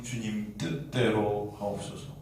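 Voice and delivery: slow, low, softened surrender; submissive prayer. Acted. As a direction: yield gently, drawing the words out. Acts the centurion's submissive prayer. (느리고 낮게 순종하는 기도)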